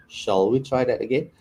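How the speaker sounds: British English accent. Shown as a demonstration. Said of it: "See the difference there?".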